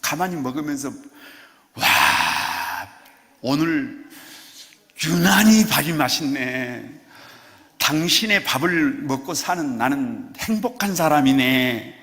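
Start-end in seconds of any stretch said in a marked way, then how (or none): 1.7-11.9 tender praise. Pretend. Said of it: "남편이 아내가 해주는 밥을".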